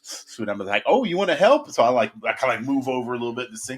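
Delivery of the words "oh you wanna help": bright high dog talk; high sing-song to a dog. Retold or imitated. Pest tech talking to a curious dog, high and cooing. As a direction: coo it up at the dog like a baby.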